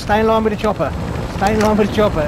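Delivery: high, loud urgent call; urgent shouting. Real, not acted. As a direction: call it out across the field. Directing teammate to the chopper.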